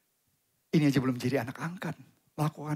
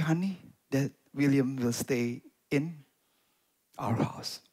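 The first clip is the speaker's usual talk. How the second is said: hushed; 3 semitones lower, slower than usual. Retold or imitated. Wife telling her husband the boy stays, in a hush.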